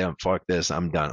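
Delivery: quiet, deflated give-up voice; mock defeated quitting. A runner at mile seventeen pretending to quit, mock defeated. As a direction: sag into a mock surrender. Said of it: "I say".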